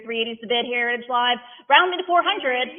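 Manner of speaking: rhythmic auctioneer chant, numbers rolled out; auction bid calling. Acted. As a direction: call the bids like an auctioneer.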